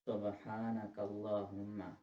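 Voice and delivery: सुबहानक with a throaty ह; सुबहानक, ह from the throat; correct Subhanaka. Shown as a demonstration. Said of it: "हा जो है वो हलक से अदा होगा". (हलक से ह वाला सुबहानक)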